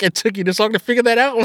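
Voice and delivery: quick mock-incredulous jab; sarcastic retort. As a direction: toss it off as a retold sarcastic comeback. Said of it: "her level of sarcasm is so refreshing".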